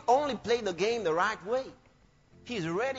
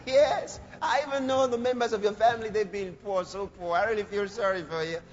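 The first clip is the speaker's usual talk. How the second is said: mock pity. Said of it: "they said".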